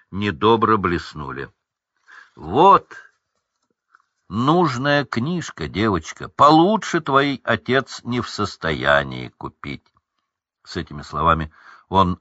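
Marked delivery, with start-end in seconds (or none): 2.3-9.8 sneer. Acted. Люциус унижает Джинни.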